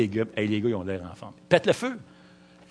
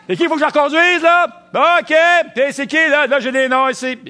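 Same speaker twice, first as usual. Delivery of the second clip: high, loud shouted greeting; driver's yell; 14 semitones higher, 9 dB louder than usual. Retold or imitated. Imitating the shouting van driver, high and loud. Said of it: "Il crie tout le temps".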